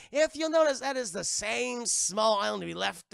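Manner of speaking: loud, slow pirate taunt; hammed-up villain speech, settling down; Barbossa. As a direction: declaim it like a gloating captain. Barbossa acted taunting Jack.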